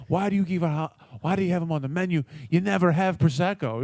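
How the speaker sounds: imitated snappish complaint, pitched a bit up; mock indignant demand; snapping. Imitating a diner complaining to the waitress, snapping. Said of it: "he starts snapping on this poor girl".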